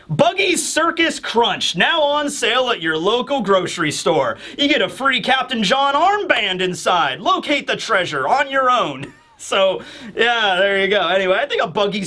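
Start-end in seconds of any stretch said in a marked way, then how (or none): 0.1-9.1 mock cereal commercial. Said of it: "mock cereal ad".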